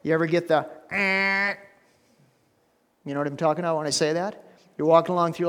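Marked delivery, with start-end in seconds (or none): 0.9-1.5 buzzer eh. Shown as a demonstration. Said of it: "It's the buzzer".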